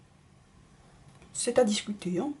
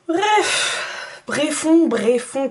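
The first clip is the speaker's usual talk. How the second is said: much higher, louder comic character voice; Pépin Trois Pommes voice; 5 semitones higher, 5 dB louder, much slower than usual. Retold or imitated. Beauty vlogger quoting a cartoon character, squeaky and loud. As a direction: pop it out like a silly cartoon figure. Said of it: "comme dirait Pépin Trois Pommes".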